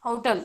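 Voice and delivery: "होटल" with a gliding first vowel; international pronunciation. Shown as a demonstration. Teacher repeating the international model, "होटल" with gliding vowel. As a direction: say "होटल" as HOW-tl. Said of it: "pronounce किया जाए तो".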